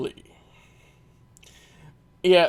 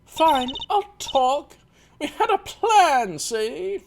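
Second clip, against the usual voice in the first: mobster twang; 8 semitones higher, slower than usual. Acted. Olga confesses in character.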